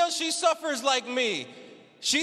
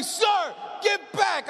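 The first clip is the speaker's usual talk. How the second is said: doctor yelling; 4 semitones higher, slower than usual. Retold or imitated. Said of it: "the doctor yells at me".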